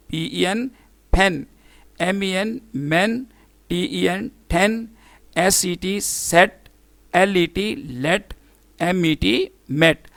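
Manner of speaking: letters first, then मेट with a short E as in "met"; short E demo. Shown as a demonstration. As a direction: spell each word, then say it with short E, like सेट. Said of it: "ये थी vowel ई की short sound".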